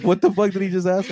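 high, loud retold disbelief through laughter; laughing disbelief. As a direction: imitate someone cracking up in disbelief. Retelling everyone bursting into laughter.

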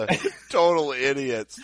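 talking through laughter; cracking up mid-sentence; laughing. Real, not acted. Co-host cracking up.

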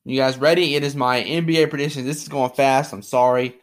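rough just-woke-up voice; groggy, rusty morning voice. Real, not acted. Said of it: "so my voice is, like, dead".

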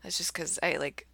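creaky vocal fry voice; tired voice with vocal fry. Real, not acted. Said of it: "I'm feeling particularly, uh, vocal fry today".

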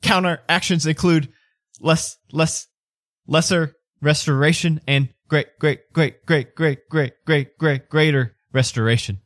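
choppy, skipping on words like a glitch; stuttering robot. Acted. Floppy Joe listing counter actions, haltingly glitchy. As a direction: stammer mechanically through the repeats.

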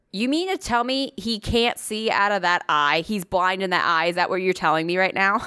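re-enacted "are you serious" disbelief; retold disbelief. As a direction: replay your stunned questioning of the vet. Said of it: "I said it just like that".

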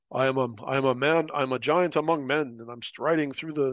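puffed-up voice of a big-shot soldier; lightly voiced braggart striding about; mock swaggering tough guy. Mocking a cocky guy who thinks he's a giant.

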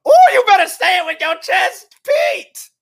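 loud, high hype shout; hyped shout. Real, not acted. Host hyping up Pete's bold text, loud excited shout. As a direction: cheer him on like a crowd.

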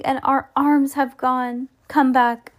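high, slow exclamation; exclaiming cry. A narrator's reading. Mister Gregg finding his arms restored, exclaiming cry. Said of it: "cried Mister Gregg".

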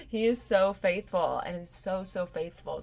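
laughing through tears; tearful praise. Real, not acted. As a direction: praise while tearing up. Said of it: "I'm about to tear up".

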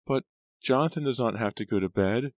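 put-on high whiny little girl; nasal whine. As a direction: whine like a sulking child. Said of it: "she whined".

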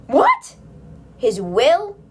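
a high, loud What? in disbelief; shocked disbelief. Acted. Girl stunned to learn she is in a stranger's will, shocked. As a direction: gasp it out as if you misheard.

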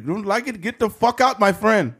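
mildly angry Middle Eastern clerk; Middle Eastern accent. Retold or imitated. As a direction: kick him out in a light Middle Eastern accent. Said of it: "he was mad".

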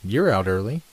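gently probing, voiced as a question; questioning remark. A narrator's reading. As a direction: lift it into a casual question. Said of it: "by way of a question".

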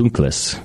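Dunkles as "DOON-kless"; German oo in Dunkles; German with final S. Shown as a demonstration. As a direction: land the S at the end of Dunkles. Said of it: "There's a S".

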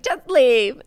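firm loud order. Retold or imitated. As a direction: throw her out firmly. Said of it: "Needy's like".

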